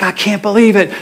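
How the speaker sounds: lightly acted delighted disbelief; imitated excitement. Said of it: "he's so excited".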